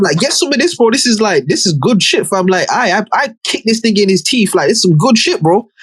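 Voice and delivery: high, mock pushy offer; hammed-up gleeful thug. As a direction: push it on him in a high mock voice. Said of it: "And he's like".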